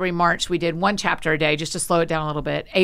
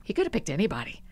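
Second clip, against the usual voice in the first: hushed; 7 dB quieter than usual. Retold or imitated. Humble quote before walking in.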